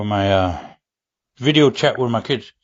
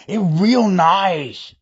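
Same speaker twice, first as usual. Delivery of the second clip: pleased, playful voice; 4 semitones higher, much slower than usual. Retold or imitated. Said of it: "After I added that water too".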